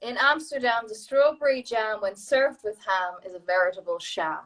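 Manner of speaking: sing-song run through the rhyme; tongue-twister recitation. Shown as a demonstration. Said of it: "Would you like to try it?".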